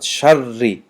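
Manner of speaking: شری with a tidy, light double r; clean doubled ra. Shown as a demonstration. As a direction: say شری cleanly, no extra trill. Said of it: "تازه تلفظ شود". («شری» бо рои тоза ва тунук)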